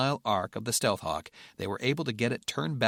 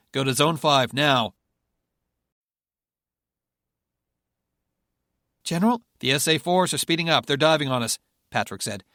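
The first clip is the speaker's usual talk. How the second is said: urgent commands; 4 semitones higher, 7 dB louder than usual. Acted. Urgent orders during missile dive.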